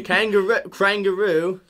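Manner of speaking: put-on British-Australian "kangaroo"; British-tinged Australian accent. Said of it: "No, add some British to it".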